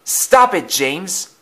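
high-pitched yell, dropping on the name; mild yell, telling someone off. A narrator's reading. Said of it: "he yelled".

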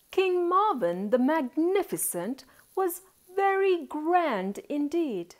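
lively, measured storybook reading; story narration. A narrator's reading. Auntie introduces a grand king to young listeners, lively narration. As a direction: read it out with rising and falling emphasis.

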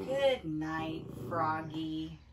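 low, gentle sign-off; low storybook goodnight; bedtime goodnight. Acted.

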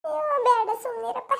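tearful protest; sobbing refusal; crying. Acted. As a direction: wave him off while sobbing. Mother refusing through tears.

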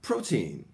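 put-on "protein" slowly as PRO-teen, falling at the end; English pronunciation demo. Shown as a demonstration. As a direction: stress PRO in "protein", long "ee" after it. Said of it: "発音は".

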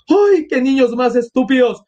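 put-on high exasperated cries for the children; acted frantic mother; alarmed calling. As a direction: call out high, scolding and searching.

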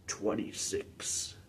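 slow, whispered echo; hushed echo. Acted. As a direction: repeat it as a faint, drawn-out echo. Soft echo of own announcement.

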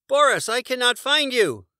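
very high, loud plaintive call; Morris crying out. A narrator's reading. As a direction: call out lost and worried. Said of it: "Morris cried".

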